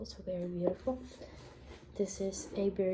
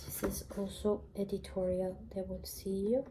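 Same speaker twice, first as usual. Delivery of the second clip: library whisper. Real, not acted.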